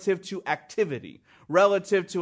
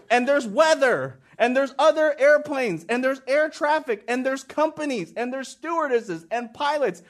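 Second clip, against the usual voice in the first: laughing list; 7 semitones higher than usual. Real, not acted. Laughing rant about airport prayer.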